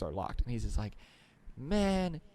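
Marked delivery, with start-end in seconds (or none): 1.6-2.2 high, slow, laughing mock rant of a ranting stranger; angry street guy. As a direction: ham up the furious stranger yelling at the wall. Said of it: "just the dramatic performance of what this guy was doing".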